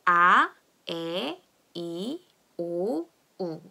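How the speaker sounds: "아, 에, 이, 오, 우" as spaced pure vowels; silent H drill. Shown as a demonstration. Teacher leading a read-along, drawn-out vowels "아, 에, 이, 오, 우". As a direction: read "아, 에, 이, 오, 우" slowly with no h. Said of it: "다 같이 한번 읽어볼게요".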